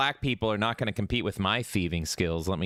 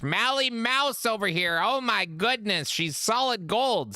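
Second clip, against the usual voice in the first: high, slow, wide-eyed drawl; slow, dreamy, high and wondering; David Lynch; 9 semitones higher, slower than usual. Pretend. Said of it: "I have to speak to her like I'm David Lynch".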